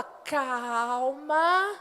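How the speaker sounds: slow, drawn-out gentle calming; steady a crying child; mother soothing her daughters slowly. Retold or imitated. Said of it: "eu falava".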